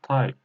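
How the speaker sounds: "Tai" with a falling fourth tone. Shown as a demonstration. Teacher marking tones before sentences, "Tai" in fourth tone. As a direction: drop the pitch through "Tai". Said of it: "fourth tone".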